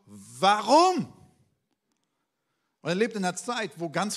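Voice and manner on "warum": a loud, high, anguished cry of why; desperate shout upward. Acted. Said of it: "und sagt ganz laut".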